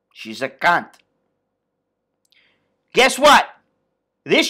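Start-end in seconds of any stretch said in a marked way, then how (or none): 0.1-0.9 low, slow, flat mob boss line; Tony Soprano. Retold or imitated. Tony dismissing Adriana to Christopher, low and slow. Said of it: "That's it".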